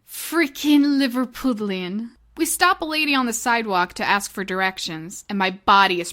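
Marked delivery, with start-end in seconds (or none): 0.1-2.1 put-on slow, playful Liverpudlian accent. Vlogger announcing her favorite English accent, in mock Liverpudlian. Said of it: "My favorite English accent".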